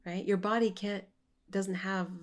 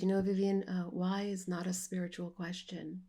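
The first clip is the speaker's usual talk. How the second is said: gentle teacher. Retold or imitated. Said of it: "really gently".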